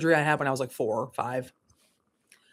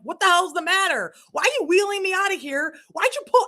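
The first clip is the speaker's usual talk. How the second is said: higher, mildly panicked questions; lightly voiced frightened demand; alarmed patient; 14 semitones higher, 4 dB louder than usual. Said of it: "I'm like".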